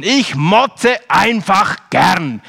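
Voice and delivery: slow, loud grumble; grumpy boy. Retold or imitated. Preacher mimicking the grumpy boy who likes to complain. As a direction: drag the words out like a sulky boy. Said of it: "Er hat gesagt".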